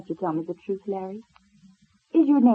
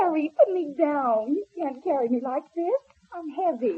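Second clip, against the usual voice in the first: higher-pitched objection to being carried; mildly alarmed, raised pitch; flustered protest; 5 semitones higher than usual. Acted. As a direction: protest at being swept off your feet.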